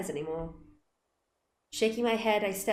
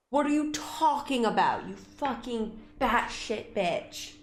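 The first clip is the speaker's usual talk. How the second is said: incredulous outburst; 3 semitones higher, slower than usual. Real, not acted.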